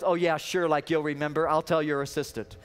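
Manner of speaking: a careful, doubting jab; wife teasing husband for forgetting, dry sarcasm; sarcastic wife. Retold or imitated. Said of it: "she very carefully goes".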